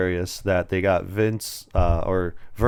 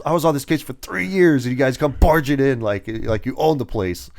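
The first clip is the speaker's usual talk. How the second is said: higher-pitched, lightly acted griping; mock indignant complaint; 5 semitones higher than usual. Undercover cop scolds police who barged in, mildly indignant. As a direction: imitate an aggrieved officer whose case got ruined.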